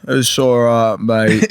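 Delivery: lightly put-on British rogue accent; casual, loose British accent; Jack Sparrow. Playing it off to others as a joke, British accent. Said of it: "like, a Jack Sparrow".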